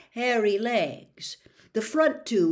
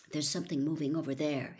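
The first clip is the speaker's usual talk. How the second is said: soft, fast breathy murmur; breathed; 6 semitones lower, 5 dB quieter, much faster than usual. A narrator's reading. Harry warning Ron in the dark, breathed quickly. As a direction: barely breathe the words out. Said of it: "Harry breathed".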